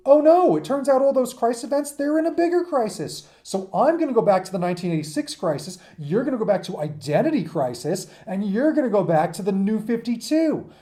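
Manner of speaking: mock alarm. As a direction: play the comic heroes rushing off in a frantic crisis. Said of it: "It goes".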